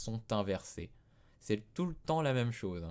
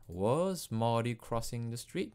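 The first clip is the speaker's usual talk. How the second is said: slow question rising up on "street?"; rising intonation; 3 semitones higher, 4 dB louder than usual. Shown as a demonstration. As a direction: end "street?" with a clear upward rise. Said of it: "on n'oublie pas l'intonation montante".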